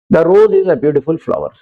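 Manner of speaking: slow, careful example sentence; dictating pace; slow example read. Shown as a demonstration. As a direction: read it out word by word for the class. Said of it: "slow example".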